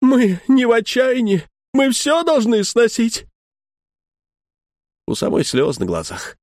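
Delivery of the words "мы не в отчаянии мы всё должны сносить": wife's outburst. Retold or imitated. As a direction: cry out, hurt and indignant. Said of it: "И бьёт, бьёт руки".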